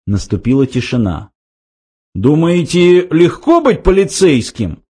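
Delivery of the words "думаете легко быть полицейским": high, aggrieved complaint; wounded protest in a raised pitch; offended. A narrator's reading. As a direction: sound hurt and put-upon. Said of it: "раздался обиженный голос".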